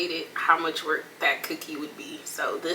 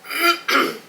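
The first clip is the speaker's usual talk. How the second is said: loud call; 2 semitones higher, 8 dB louder, faster than usual. Real, not acted. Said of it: "I'm sorry".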